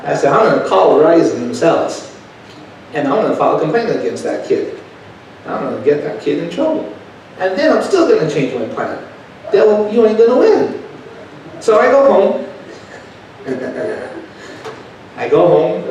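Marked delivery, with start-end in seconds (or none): 0.3-10.8 building to a high, loud declaration; rising in pitch to the final shout; preacher declaring victory over the devil, louder and louder; defiant vow. Retold or imitated. Vowing to fight, building up.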